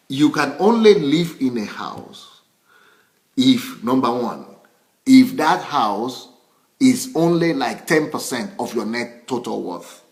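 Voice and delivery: slow, deliberate, spaced-out explanation. Real, not acted. Restating the house rule after talking too fast, slow and deliberate. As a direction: take it slowly with pauses between phrases. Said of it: "maybe I'm talking too fast".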